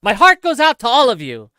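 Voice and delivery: lightly voiced Elon repeating his line; Elon impression. Shown as a demonstration. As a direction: echo Elon's words as a quick demo. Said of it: "can you please do an Elon salute impression".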